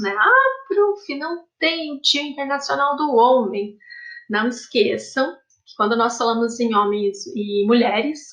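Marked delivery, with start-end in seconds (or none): 0.1-3.8 imitating the boys. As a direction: mimic a student protesting to the teacher. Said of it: "os meninos falam muito isso". (imitando os meninos reclamando com a professora, voz mais aguda)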